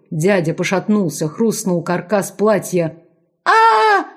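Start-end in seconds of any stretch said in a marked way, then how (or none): 3.4-4.1 very high, loud scream. A narrator's reading. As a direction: scream while struggling. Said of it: "кричала Аледа".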